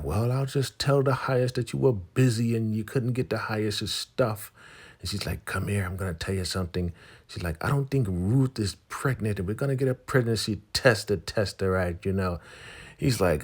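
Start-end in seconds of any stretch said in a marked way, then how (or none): 0.0-4.5 high, loud nagging caricature; Elder Mother Mava. Retold or imitated. Elder threatening to report busy Daikon, high nagging voice. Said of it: "Elder Mother Mava". 5.4-6.9 higher, quick put-on woman's voice; Elder Mother Mava. Elder calling Daikon over to confide, high put-on voice. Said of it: "Elder Mother Mava". 7.6-12.4 high put-on scheming voice; Elder Mother Mava. Elder plotting a test with Daikon, high mock voice. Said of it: "Elder Mother Mava".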